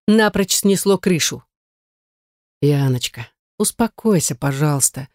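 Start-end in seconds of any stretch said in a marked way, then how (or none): 2.6-5.1 calm her down gently; David tries to soothe his angry ex-wife; conciliatory tone. Acted. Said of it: "примирительным тоном".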